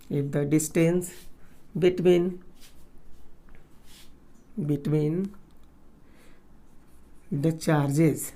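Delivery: slow, word-by-word dictation with long pauses. Real, not acted. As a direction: dictate it for note-takers, repeating as you write. Dictates a question while writing. (रुक-रुक कर लिखवाते हुए)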